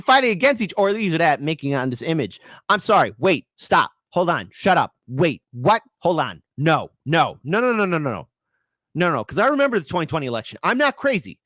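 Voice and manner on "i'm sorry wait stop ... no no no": frantic disbelief. Real, not acted. Frantic disbelief after the clip.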